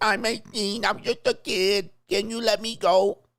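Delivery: high put-on little-kid baby voice. Imitating a grown woman who tried to use the baby voice, put-on baby voice. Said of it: "Now she got the baby voice".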